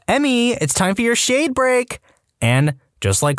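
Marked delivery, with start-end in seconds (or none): 0.1-2.0 high sing-song call; mom calling out. Retold or imitated. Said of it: "she'd blow a whistle and go".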